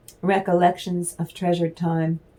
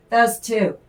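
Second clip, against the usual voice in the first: laughing; 4 semitones higher, 3 dB louder than usual. Real, not acted. Laughs at own remark.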